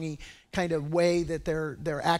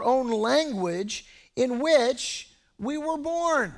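slow, higher-pitched marveling; mildly amazed; 5 semitones higher, slower than usual. Acted. Preacher reading the crowd's astonished question about Galileans, mildly amazed. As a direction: read it with a touch of wonder, drawn out. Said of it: "they were all amazed and marveled".

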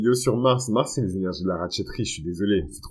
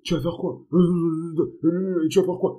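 tough guy taunt; 9 semitones higher, 5 dB louder than usual. Retold or imitated. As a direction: challenge him, rising and louder. Men squaring up forehead to forehead.

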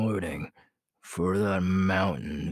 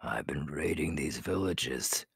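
low whisper, plotting in secret; whispered confiding; 4 semitones lower than usual. Acted. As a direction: whisper your raids to your Beta. Leader confiding to his Beta.

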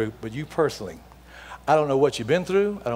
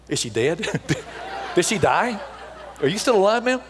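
chuckling through a mock-worried question; laughing mock worry; 5 semitones higher than usual. Preacher joking to crowd that the old woman died, laughing. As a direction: laugh while fretting that she died. Jokes she has died in seat.

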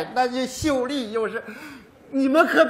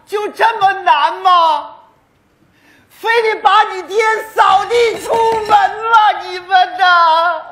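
put-on loud, high, indignant shout at his children; angry outburst; 6 semitones higher, 7 dB louder than usual. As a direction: bellow it like a wronged old father. Father accuses children of eviction. (气愤地高声喊叫)

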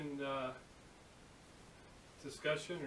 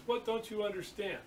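higher-pitched mock exasperation; retold fury; 6 semitones higher than usual. Steel worker confronting his apprentice, exasperated. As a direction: demand it as if at wits' end. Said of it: "the guy goes crazy".

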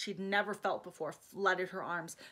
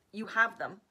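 shouted; 4 dB louder than usual. Acted. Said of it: "Ian shouted over the noise".

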